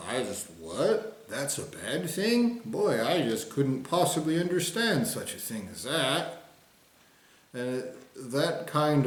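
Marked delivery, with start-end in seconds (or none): 0.1-6.4 slow, higher, faux-baffled voice; mock innocence. Mocking people who pretend not to understand, faux-baffled. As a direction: play dumb, feigning confusion. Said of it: "will be like".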